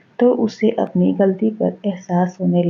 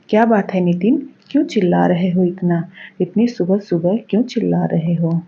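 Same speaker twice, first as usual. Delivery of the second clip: annoyed mother; faster than usual. Acted. Mother confronting her shouting son, quick and sharp. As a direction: hurry in to stop the fight.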